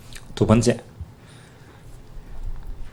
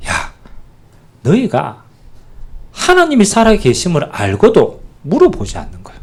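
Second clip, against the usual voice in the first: a touch of frustrated scolding; mildly exasperated God; 5 semitones higher than usual. Acted. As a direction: scold Israel lightly, as an annoyed God. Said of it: "이럴 때 제일 열받아요, 하나님이".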